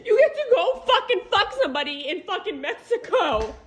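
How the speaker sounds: bitter, teary laugh; crying and laughing in anger; crying while talking. Real, not acted. Mother addresses her cheating husband, crying.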